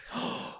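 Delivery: soft horrified gasp; mock gasp. Host feigns dread at the story, soft gasp.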